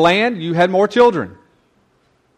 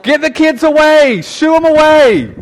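much higher, louder mock shooing; shooing disciples; 10 semitones higher, 6 dB louder than usual. Disciples shooing the children away from Jesus, high and loud. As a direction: wave the kids off, hammed up. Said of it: "are like".

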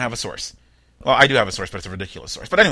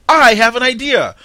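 scheming thief; 3 semitones higher, 3 dB louder than usual. Pretend. Host voicing the bunny thief, hammed up and gleeful. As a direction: play a cartoonish crook getting an idea.

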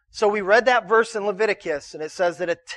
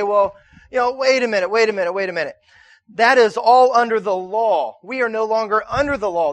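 louder, insistent imitation of an objector; mock protest; 2 semitones higher, 5 dB louder than usual. Pastor imitating people who argue against tithing, mock protest. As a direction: cut in as someone objecting, hammed-up and forceful.

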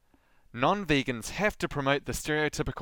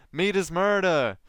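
mildly hammed-up protest cry, higher; mock scream; 5 semitones higher, 4 dB louder, slower than usual. Podcaster mimicking vegans portrayed as nutjobs, mock scream. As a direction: chant it like a nutjob activist, stretched out. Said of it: "nutjobs who scream".

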